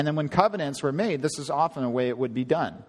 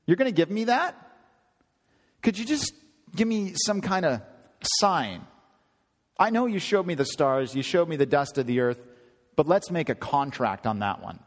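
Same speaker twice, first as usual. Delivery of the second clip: imitating Abram; 3 semitones higher than usual. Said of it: "we talk like this".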